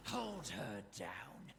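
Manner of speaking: slow, menacing raider voice; unhinged villain. Acted. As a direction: growl it like a cruel raider. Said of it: "That's the evil voice again".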